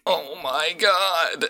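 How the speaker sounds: high, drawn-out fan gasp; overwhelmed fan barely containing it; starstruck excitement. Acted. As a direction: stretch it out in giddy awe. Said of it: "vibrating in their seat from excitement".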